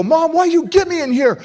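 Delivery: put-on high, loud teenage whine; sulky kid pleading with mom; whiny teen complaint. Angry teen whining at mom.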